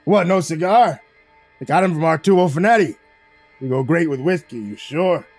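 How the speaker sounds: loud mobster host, incredulous; jovial boss's mock disbelief; exclaimed surprise. A narrator's reading. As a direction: push the offer loudly, like a wiseguy. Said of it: "He exclaimed".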